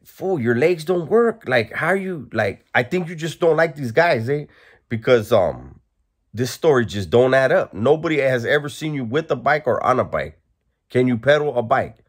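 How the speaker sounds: incredulous. Retold or imitated. Incredulous retort to the man.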